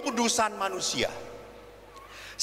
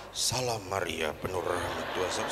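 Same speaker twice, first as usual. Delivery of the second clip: mock scared praying; 5 dB quieter than usual. Priest praying in a speeding car's front seat, comically scared. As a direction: pray under your breath as a nervous passenger. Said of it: "Takut saya".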